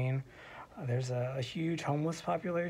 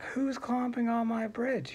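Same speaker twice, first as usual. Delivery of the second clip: mildly angry, higher-pitched troll challenge; a touch of just-woken irritation, pitched up; grumpy troll; 8 semitones higher than usual. Acted. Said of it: "you get angry".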